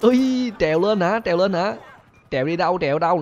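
high, loud startled questions; alarmed cries. Real, not acted. Police climbing up to him, high alarmed cries. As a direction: panic at them climbing.

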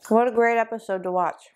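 chewing while talking; talking through a mouthful of chocolate; mouth full. Real, not acted. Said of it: "Sorry I'm talking while I'm chewing".

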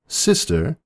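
a high, fretful princess voice; Luna's worried voice. A narrator's reading. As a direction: ask with anxious care. Luna voiced in story.

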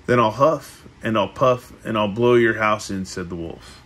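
measured read-aloud with lifted phrase openings; storybook narration. A narrator's reading. Reading the three little pigs to a listener, storybook narration. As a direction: read it like a picture book.

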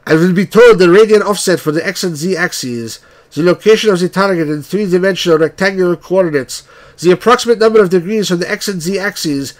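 put-on weapons officer in a weak Russian accent; bad Russian accent. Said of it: "my Russian accent's not very good".

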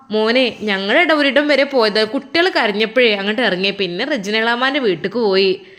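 chatty mother explaining on the phone. Acted. (മകനോട് ഫോണിൽ സംസാരിക്കുന്ന ഉമ്മ, അൽപം ഉച്ചത്തിൽ)

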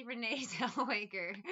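Renee Zellweger said right through a laugh; correct name, laughing. Real, not acted. Trying to say the name wrong, laughing. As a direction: let the laugh break into the name. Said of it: "trying to say it wrong".

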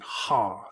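"ha" with an audible h at the front; rough breathing. Shown as a demonstration. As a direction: put an H sound before the vowel in "ha". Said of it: "this is a rough breathing".

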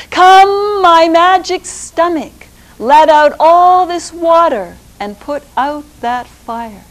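high, loud call to his stomach; rooster calling. Acted. Rooster in the well calling his magic stomach, high and loud. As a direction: summon it like a spell. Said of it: "he said".

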